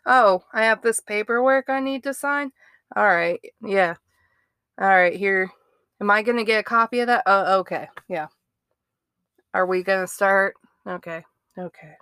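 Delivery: lightly voiced offhand suspect; calm and casual. Host mimicking suspect's casual chat with police, lightly. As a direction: toss it off like paperwork is routine. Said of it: "He's just like".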